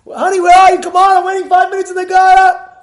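high, loud, impatient calling. Retold or imitated. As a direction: call out impatiently.

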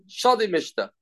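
sarcastic. Retold or imitated. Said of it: "assume that she's being sarcastic".

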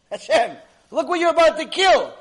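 loud, high-pitched appeal; tearful plea, acted. Angels begging Hashem for Isaac, acted tearful plea. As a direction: cry out in protest to Heaven. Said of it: "The angels start crying".

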